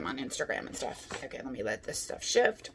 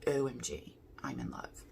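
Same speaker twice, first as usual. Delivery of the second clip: breathy excited whisper; 5 semitones lower, 6 dB quieter than usual. Real, not acted. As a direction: whisper it in delight. Whispered delight over palette.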